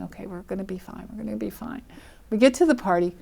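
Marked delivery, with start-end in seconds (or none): 0.0-1.8 much softer, half-to-herself reassurance; nervous murmur. Retold or imitated. Driving the stranger in tense silence: soft nervous self-reassurance. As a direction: mutter it under her breath to calm herself.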